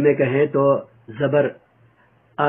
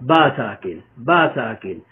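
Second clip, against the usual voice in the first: spelling drill; 3 semitones lower, slower than usual. Shown as a demonstration. Teacher drilling students in spelling, chanted. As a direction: repeat با ساکن slowly, sing-song chant. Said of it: "با کی spelling کیسے کریں گے؟".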